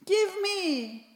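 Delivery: tearful, whiny demand; a child wailing for what he wants; crying. Acted. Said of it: "crying loudly".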